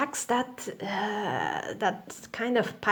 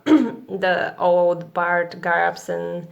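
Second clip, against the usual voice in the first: clearing throat mid-sentence; throat catching on a cough; 3 semitones lower, 4 dB louder, much slower than usual. Real, not acted. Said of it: "I started coughing".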